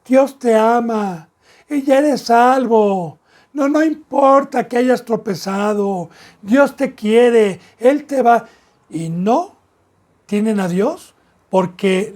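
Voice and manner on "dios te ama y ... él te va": mock soft-soap. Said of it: "Palabras suaves".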